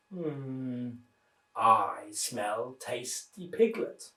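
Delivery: low, very slow hungry wolf murmur; a greedy wolf licking his lips, low and slow. Acted. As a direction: savour each word like a hungry wolf. Wolf voiced.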